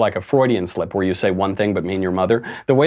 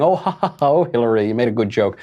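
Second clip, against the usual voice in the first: mock fawning crowd; faster than usual. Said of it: "They're all laughing".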